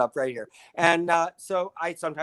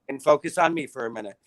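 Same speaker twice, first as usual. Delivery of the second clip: put-on dog's weird accent; 3 semitones lower, 4 dB louder than usual. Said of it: "Why does she talk in that weird accent?".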